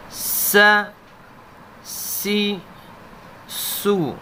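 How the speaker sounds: "سا" "سی" "سو" with a sharp whistling s; whistling seen. Shown as a demonstration. Teacher demonstrates to students the whistling seen. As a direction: hiss the s of "سین" like a whistle. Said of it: "سین کی آواز ہمیشہ سیٹی کی آواز".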